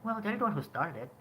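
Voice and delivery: calm voice. Shown as a demonstration. Showing how Budi should answer his mother, calm voice. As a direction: reason with Mother without shouting. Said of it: "say that line in a calm voice".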